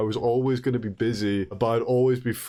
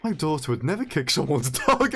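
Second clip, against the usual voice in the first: laughing. Retold or imitated. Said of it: "The thought did enter my head".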